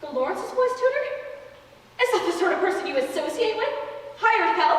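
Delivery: high, appalled disdain; scandalised. Acted. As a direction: look down your nose at him. Scandalised old aunt.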